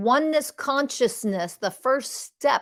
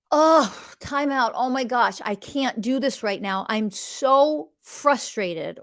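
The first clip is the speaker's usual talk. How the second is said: overwhelmed venting; slower than usual. Retold or imitated. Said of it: "And if I cannot".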